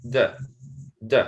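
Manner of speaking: "d" said as a short "duh", twice; isolated schwa syllable. Shown as a demonstration. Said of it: "ah sound".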